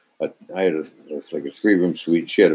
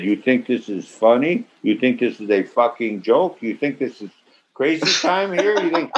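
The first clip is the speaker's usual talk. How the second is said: mock director rage; 4 semitones higher than usual. Director rages toward the girl.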